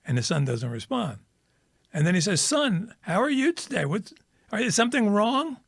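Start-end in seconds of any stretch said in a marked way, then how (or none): 2.4-5.6 much higher, urgent call to the sun; pressing the silent sun, worried; rising anxious repeat; insistent asking. Retold or imitated. Sun doesn't respond.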